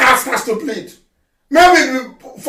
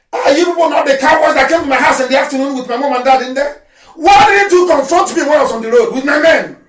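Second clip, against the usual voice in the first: angry shout. Real, not acted. Leader accusing soldiers who raided his home, angry shout. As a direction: fling the accusation at them.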